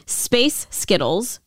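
"Space Skittles" slow, each word separate; original wordplay demo. Shown as a demonstration. Host resetting the demo for co-host, slow "Space Skittles". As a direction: say "Space Skittles" slowly and distinctly. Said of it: "We'll just do it originally".

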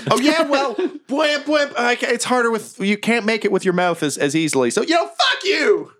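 very high laughing goblin, ending in a shout; goblin retort. Acted. Goblin firing back at the mech pilot, very high shout. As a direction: squeal back the insult, laughing.

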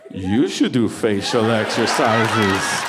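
slow, mocking echo of the wife; mocking repeat. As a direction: parrot her words back slowly, teasing. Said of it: "I was like".

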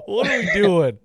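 slow, high, drawn-out panic; mock terrified, high and slow; retold panic. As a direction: stretch it out like you're terrified. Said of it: "And I'm like".

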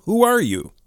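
high, startled challenge to a stranger; alarmed demand. A narrator's reading. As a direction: demand it, pitch leaping up.

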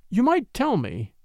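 mildly resentful argument. Acted. Woman pressing him for his plan, mildly resentful. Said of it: "she argued resentfully".

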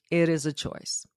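whispered, soft and confiding. Real, not acted. Host confiding to viewers, soft whisper. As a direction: lean in and whisper the secret. Stressing choice intimately.

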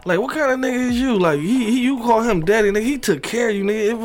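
imitating Brat. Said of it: "brat chimed in like".

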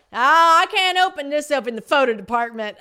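loud, high put-on cashier voice. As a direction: voice the flustered cashier. Voicing the cashier Tammy.

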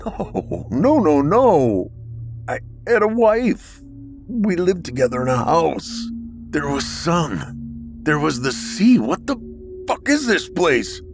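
shrieking protest. Acted. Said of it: "I shrieked in protest".

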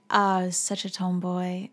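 put-on light South African accent, slowed; Candace Swanepoel. Host mimicking a model's tomboy claim, light South African accent. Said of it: "in her South African voice".

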